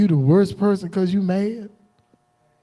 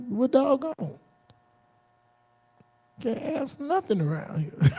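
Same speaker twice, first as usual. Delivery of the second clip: a soft grumble under the breath, to himself; quietly grumbling doggone, can't ask nothing; muttered mock complaint; 5 semitones higher, 8 dB quieter than usual. Grumbling softly after being refused another question. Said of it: "I was like".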